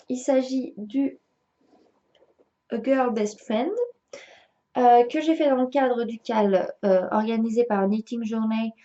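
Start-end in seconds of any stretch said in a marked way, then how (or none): 2.7-3.7 English title in a French accent; self-mocked French accent in English. Real, not acted. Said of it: "mon accent anglais est tellement magique". 7.9-8.7 English name in a French accent; real French accent on English. Real, not acted. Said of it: "mon accent anglais est tellement magique".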